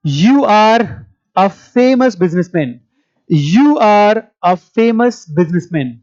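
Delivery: slow, deliberate model sentences with pauses; read-along drill. Shown as a demonstration. English teacher leading students in read-along sentences, slow drill delivery. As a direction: say each phrase slowly for repetition.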